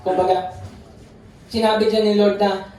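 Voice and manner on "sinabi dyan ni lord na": usual speaking voice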